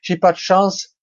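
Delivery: plainte aiguë et traînante, jouée; lamentation. Acted. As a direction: se lamenter en exagérant, voix haut perchée. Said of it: "je pourrais me lamenter dans mon coin". (lamentation geignarde surjouée)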